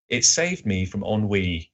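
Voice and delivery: a slow, measured literary reading with mild weariness; lightly voiced Holmes, drawn out and weary; yawning Holmes. Podcaster reading Holmes's reply to his co-hosts, mildly weary. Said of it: "he answered, yawning".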